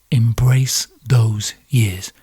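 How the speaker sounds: slow, low whispered aside. Real, not acted. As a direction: breathe it slowly as a whisper.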